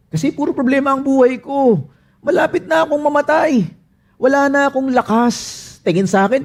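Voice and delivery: high, pleading cry to God; anguished lament. Acted. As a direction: plead with God as if nearly dead. Voicing the psalmist's lament.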